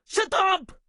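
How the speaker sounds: short, firm shouted command; brisk, angry silencing; angry order. Acted. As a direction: cut them off with a quick order. First of a repeated angry order.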